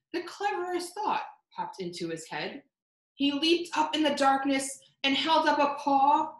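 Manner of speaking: rhyming picture-book read-aloud; story narration. A narrator's reading. Librarian reading a rhyming story to children, storytelling voice. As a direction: read the rhymes to the children, gently paced.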